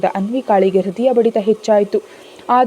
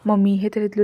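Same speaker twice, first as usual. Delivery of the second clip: ordinary delivery, nothing marked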